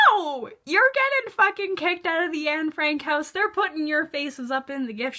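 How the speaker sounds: loud, high, scolding the characters; indignant outburst. Real, not acted. Scolding the kissing teens in the museum, loud indignant yell. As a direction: yell at the couple that they're getting thrown out.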